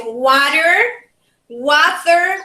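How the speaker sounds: water with an r ending; "water, water," as wɑtə˞; American water. Shown as a demonstration. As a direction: say "water, water," with a rolled r at the end. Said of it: "Three different pronunciation".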